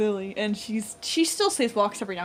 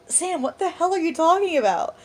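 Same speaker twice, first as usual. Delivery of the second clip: high, incredulous question; baffled mock outrage; retold exasperation; 7 semitones higher than usual. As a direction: ask as if they've lost their mind.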